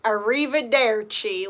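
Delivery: slow, lightly voiced Southern-accented arrivederci; Brad Pitt's Southern Italian. Quoting Inglourious Basterds, slow mock Southern-accent arrivederci. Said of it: "like Brad Pitt".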